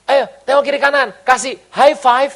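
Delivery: high, loud hyped party host voice; mock club worship leader. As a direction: ham up a clubby worship leader shouting to the crowd. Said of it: "biasanya begini". (meniru pemandu ibadah ala dugem, lebih tinggi dan keras)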